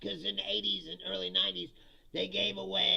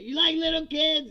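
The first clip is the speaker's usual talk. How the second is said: plain; 9 semitones higher, 9 dB louder than usual. Retold or imitated. Mocking the caller's accusation.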